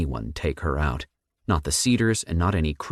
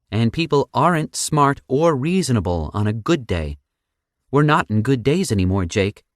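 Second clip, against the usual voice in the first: sarcastic Sam voice; 7 semitones higher, 4 dB louder than usual. A narrator's reading.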